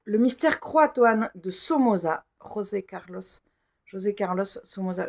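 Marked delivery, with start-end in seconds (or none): 2.4-5.1 "José Carlos" with a Spanish throaty J; tentative Spanish accent. Shown as a demonstration. Reader attempting the author's name in a Spanish accent, "José Carlos". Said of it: "Je vais pas prendre un accent espagnol".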